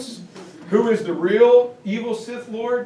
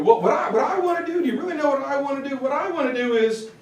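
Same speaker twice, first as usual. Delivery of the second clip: building tirade; 6 semitones higher, much faster than usual. Retold or imitated. Hitler voiced on trial.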